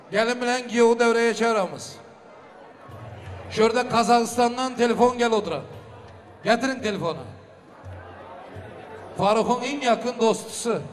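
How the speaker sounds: booming wedding announcer. Acted. Emcee calls couple, announces call.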